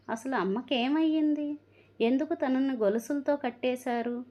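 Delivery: anxious questioning. Acted. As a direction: demand to know what happened, voice lifted. Sister pleads with brother.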